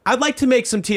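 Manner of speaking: put-on a very old aunt offering tea she can't make; imitating a ninety-eight-year-old aunt; frail old aunt. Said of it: "she goes".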